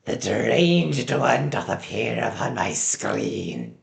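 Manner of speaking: slow, lightly voiced grand villain; hammed-up archaic proclamation, slowly; mock villain.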